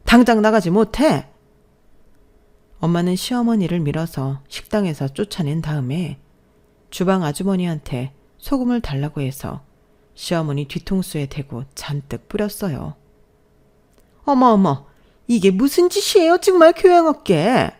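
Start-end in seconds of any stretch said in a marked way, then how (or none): 0.1-1.3 loud angry order to get out; furious mother yelling at the in-law; angry shout. Acted. 14.3-17.7 high, loud, scandalized shriek; outraged in-law screeching about manners; shrieking mother-in-law. Acted.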